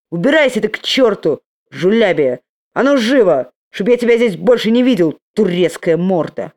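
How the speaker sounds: loud angry shout, rising. Acted. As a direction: yell at him to get out. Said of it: "Он крикнул".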